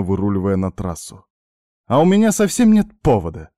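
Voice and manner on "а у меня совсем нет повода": high, loud snapped retort; snapping back. A narrator's reading. Woman snapping back at the man in the car, high and loud. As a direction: snap back at him sharply. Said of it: "огрызнулась она".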